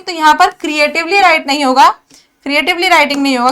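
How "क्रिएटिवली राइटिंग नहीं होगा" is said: wrong version, rattled off. Shown as a demonstration. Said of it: "क्या होगा?".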